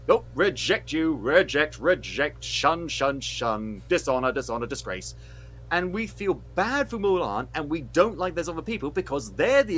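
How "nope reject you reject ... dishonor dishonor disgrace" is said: mock rejection. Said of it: "they're just like".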